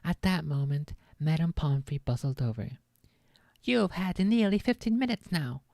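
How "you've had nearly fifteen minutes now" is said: firm whispered order to leave; firm nurse. A narrator's reading. Nurse sending visitors away, firm and whispered. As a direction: shoo the visitors out firmly. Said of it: "she said firmly".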